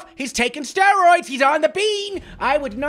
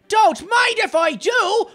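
slow, loud eager claim; 7 semitones higher, 4 dB louder, slower than usual. Real, not acted. Gamer taking a rainbow carpet, slow loud delight. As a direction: savour grabbing the prize.

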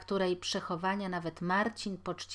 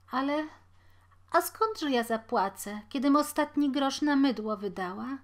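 higher exasperated lament; despairing mother; 7 semitones higher, 5 dB louder than usual. A narrator's reading. Mother to her son, high and despairing. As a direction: throw up your hands.

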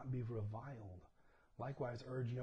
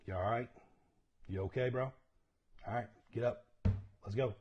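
dad calling; 5 dB louder than usual. Retold or imitated. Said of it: "I'm like".

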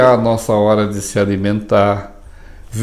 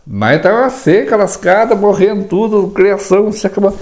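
higher mock lament over the drought; 7 semitones higher than usual. Mimicking someone complaining the drought ruined everything. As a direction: whine about the ruined crops.

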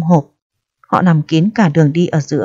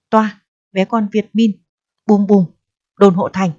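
put-on lightly done broken French accent, barked; fake French accent; 2 semitones higher than usual. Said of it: "Anh giả giọng Tây lơ lớ, hỏi to như quát".

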